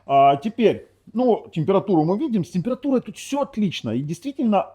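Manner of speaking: ordinary talk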